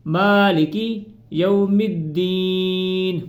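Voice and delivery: slow, tuneful recitation with a short ی in مالکی; slow correct reading. Shown as a demonstration. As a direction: chant مالکی with a short kasra. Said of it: "پہلے اس کی practice کرنی ہے".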